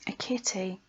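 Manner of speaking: an eerie whispered close. Acted. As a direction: let it fade into a whisper. Eerie ending of poem.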